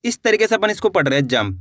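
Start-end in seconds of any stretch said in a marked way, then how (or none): 1.3-1.6 जंप said jamp, short m straight into प; half-m. Shown as a demonstration. Teacher reading the word for learners, जंप with a half-m. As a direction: close जंप on a quick m and p. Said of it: "आधा माँ का उच्चारण निकल रहा है".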